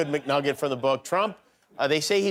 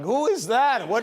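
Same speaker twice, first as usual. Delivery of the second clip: high, startled squawk of a question; startled pigeons; 8 semitones higher than usual. Retold or imitated. Pigeons startled by a man flying past. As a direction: pitch up like a spooked pigeon. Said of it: "The pigeons were like".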